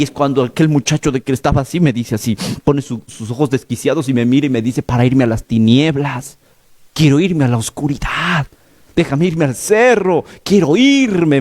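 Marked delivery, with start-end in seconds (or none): 4.8-11.4 smiling demonic voice. Retold or imitated. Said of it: "me decía sonriente".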